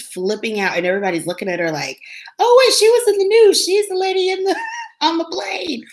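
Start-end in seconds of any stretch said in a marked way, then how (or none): 2.4-5.8 high, quick gossipy whisper-talk among onlookers; gossiping passengers. Retold or imitated. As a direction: sound like nosy strangers recognizing her.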